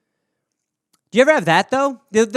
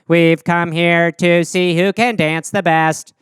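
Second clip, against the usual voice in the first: slow, robotic alien translator; stepping off the ship, alien announces the contest through translator, slowly; 4 semitones lower, slower than usual. Acted. Slow robotic translator. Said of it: "through a little mouth translator".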